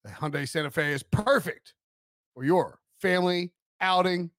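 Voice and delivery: measured sponsor sign-off; podcast host doing a sponsor read. Acted. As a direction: read out the car ad's closing details. Reads a sponsor ad.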